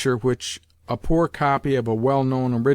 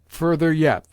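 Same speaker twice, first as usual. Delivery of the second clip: louder, higher insistent order; commanding cry; 4 semitones higher, 5 dB louder than usual. A narrator's reading. Grandmother ordering lackeys to fold bed back, loud. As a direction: push the servants on, commanding. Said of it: "the old lady cried".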